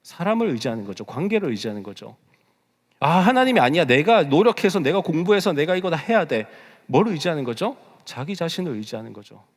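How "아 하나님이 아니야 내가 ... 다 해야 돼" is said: mock determined self-talk, higher and louder; self-reliant insistence. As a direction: insist you'll do it all yourself. Acts out relying on oneself. (내가 하겠다고 우기는 흉내)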